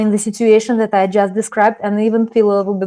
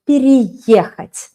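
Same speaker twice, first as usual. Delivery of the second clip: drawn-out переехать; slow model word; slower than usual. Shown as a demonstration. Teacher models the perfective verb slowly. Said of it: "use a perfective verb".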